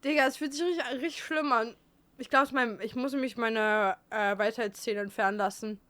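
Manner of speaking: talking through tooth pain; lisping from a sore wisdom tooth; toothache lisp. Real, not acted. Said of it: "Warum lispelst du grad".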